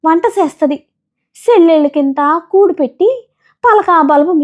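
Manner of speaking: a tired village woman telling her lot; peanut seller voice. Acted. (పల్లెటూరి అమ్మ స్వరంలో అలసటగా)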